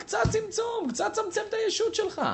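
God telling the listener to shrink the ego, high shout. Retold or imitated. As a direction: proclaim it like God calling down. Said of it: "הקדוש ברוך הוא אומר לך".

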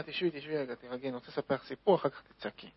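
the Baal Shem Tov calming the grieving mother. Acted. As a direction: settle her down gently, close and hushed. Sage calms the grieving mother.

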